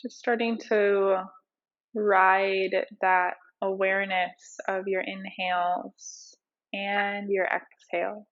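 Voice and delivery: unhurried meditation teacher, leaving space between cues; guided meditation. Acted. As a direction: ease them into breath awareness, phrase by phrase.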